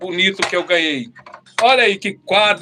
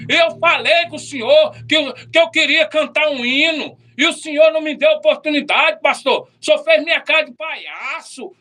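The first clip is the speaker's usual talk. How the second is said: angry complaint; 5 semitones higher than usual. Retold or imitated.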